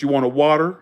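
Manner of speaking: mock Southern order-taking; exaggerated Southern accent. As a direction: lay the Southern accent on a little thick. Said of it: "being a little exaggerated".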